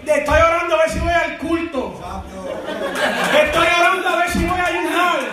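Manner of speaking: high-pitched preacher mimicking hesitant believers; mocking preaching. Preacher acting out believers who keep praying over obvious duties, mocking.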